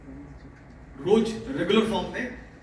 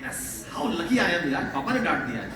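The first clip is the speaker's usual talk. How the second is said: happy lucky exclaim. Shown as a demonstration. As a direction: act delighted to be scolded, with a laugh. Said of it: "तो बोला करो".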